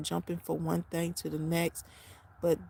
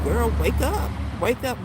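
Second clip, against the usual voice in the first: voicing God's wake-up call; 5 semitones higher, 9 dB louder than usual. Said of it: "He is trying to tell me something like".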